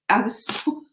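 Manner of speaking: whispered, voice dropping out. Real, not acted. Recalling the hurt of the breakup, in a whisper. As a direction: let the words fall to a whisper.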